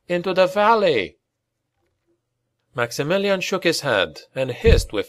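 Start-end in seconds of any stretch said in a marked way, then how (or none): 0.1-1.2 raised, higher plea to flee; urgent cry. Acted. Rat Boy urging the Baron to flee, raised urgent cry. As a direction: call out in alarm to the Baron. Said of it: "he cried".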